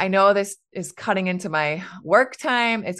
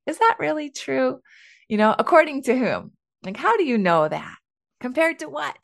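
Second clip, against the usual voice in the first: lightly gentle, higher-pitched curious questions; gentle questioning; 7 semitones higher than usual. Shown as a demonstration. Parent gently questioning a child's extreme thinking, mild and higher-pitched. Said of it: "We can gently ask them".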